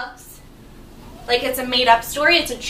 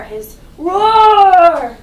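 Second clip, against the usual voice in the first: excited; 6 semitones higher, 12 dB louder than usual. Real, not acted. Teacher prompts class answer.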